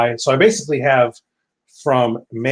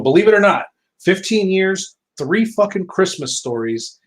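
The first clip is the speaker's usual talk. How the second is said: incredulous; 7 semitones higher than usual. Real, not acted. Incredulous about own record.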